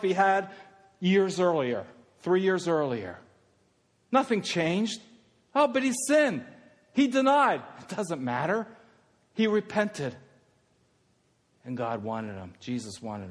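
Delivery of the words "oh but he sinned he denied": high-pitched protesting objector; mock accusation. Objector accusing Peter who denied, mock accusation. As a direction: object in a raised, indignant mimic.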